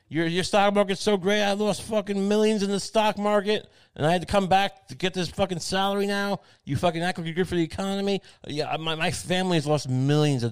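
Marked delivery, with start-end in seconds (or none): 0.1-8.2 high mock rant. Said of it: "lying about investments".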